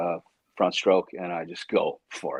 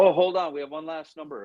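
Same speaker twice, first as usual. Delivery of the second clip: higher-pitched mock announcement; retold announcer; 8 semitones higher than usual. Caller finding one last crinkled number, retold announcement.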